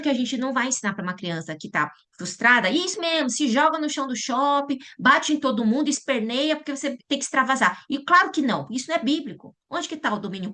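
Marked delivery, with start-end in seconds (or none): 2.7-7.8 high, sarcastic encouragement to throw a tantrum; mock permissive parent. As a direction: egg the child on, ironically.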